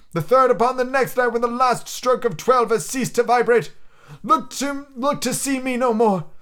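ghost voice. Acted. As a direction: intone it like a chained spirit. Ghost warns.

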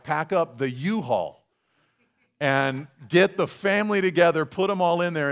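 firm, emphatic instructions; punchy, no-nonsense moving orders; weighty contrast. Acted. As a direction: spell out the big undertaking. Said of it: "This is like".

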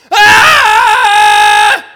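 high, loud panicked scream; terrified scream. Pretend. Frightened disciple in the boat screams in terror. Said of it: "One guy's just screaming".

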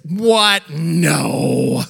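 put-on a small girl staggered by the news; shocked child. Daughter reacting to her father, shocked and loud.

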